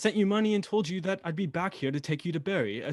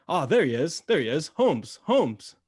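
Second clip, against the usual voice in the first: louder, calling out across the street; 6 dB louder, slower than usual. Acted. Watson spotting Holmes at the factory gates, calling out. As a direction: hail him from a distance.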